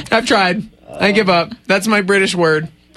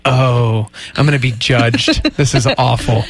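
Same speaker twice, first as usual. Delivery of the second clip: mock nervous panic; 9 semitones lower than usual. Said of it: "And then I'm like".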